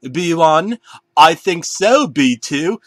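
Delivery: high, loud cartoon banana; squeaky banana voices. Bananas agreeing on their plan, high and loud. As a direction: chirp it like a kids' show character.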